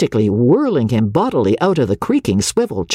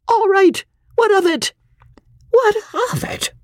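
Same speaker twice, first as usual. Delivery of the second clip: heated retort. Acted. Heated quarrel between spouses.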